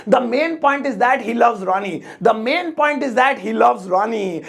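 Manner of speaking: measured, word-by-word English; drawn-out example sentence; slow teaching model. Shown as a demonstration. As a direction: say it slowly for learners to copy.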